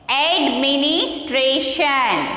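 "Administration." slowly, drawn out in parts; "Administration." sounded out slowly for learners; slow pronunciation model. Shown as a demonstration. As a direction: stretch out each part of "Administration.". Teacher models a word in parts.

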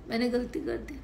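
rising, questioning मैंने गलती कर दी; doubtful question. Shown as a demonstration. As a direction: ask मैंने गलती कर दी as if unsure. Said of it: "नहीं, मैंने गलती नहीं करी".

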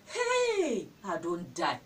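overacted heartbroken cry; mock wail. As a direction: wail it like your world just ended, hammed-up. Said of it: "that time you condition".

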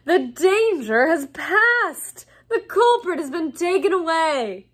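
patronising, theatrical reassurance; slow condescension. A narrator's reading. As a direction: spell it out as if to dimwits. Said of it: "speaking slowly, as though they were all a bit dim".

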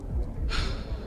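quiet breathy sigh; soft sigh. Acted. Reacts to being asked.

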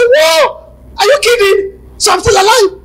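high shouted whoa through laughter; shouting, laughing, near crying; laughing disbelief. Retold or imitated. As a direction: cry out in delighted disbelief.

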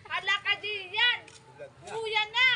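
teasing call. Real, not acted. Teasing Gian loudly.

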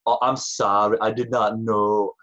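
put-on a weak, barely there German accent; mock German accent, badly done; hint of a German accent, hammed up and bad. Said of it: "That's really bad German".

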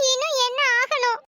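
tearful, distraught reply with sobs at the end; mild mock wail of grief; acted wailing. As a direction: cry lightly through the words. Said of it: "அலறத நிறுத்திட்டு".

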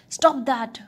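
loud booming giant shout; booming thunder voice. A narrator's reading. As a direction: boom it out like thunder. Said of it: "boomed the giant".

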